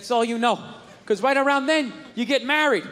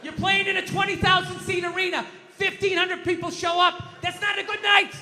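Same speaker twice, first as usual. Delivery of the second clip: screaming rant; 5 semitones higher than usual. Real, not acted. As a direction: yell it like at the TV. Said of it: "I'm sitting at home screaming".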